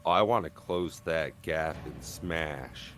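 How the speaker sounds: slow, a hint of New Jersey accent. Real, not acted. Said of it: "God, I sound like I'm from New Jersey".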